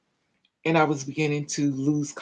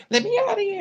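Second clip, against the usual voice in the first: very high-pitched yell, held back in volume; mock scream, pitch shot way up; retold holler in a high, thin-volume voice; reenacted screaming; faster than usual. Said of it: "And I'm screaming".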